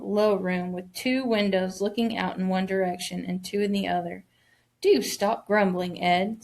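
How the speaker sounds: put-on reading a children's novel aloud to the class; story narration. A narrator's reading. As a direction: tell the story clearly, lightly voicing each child.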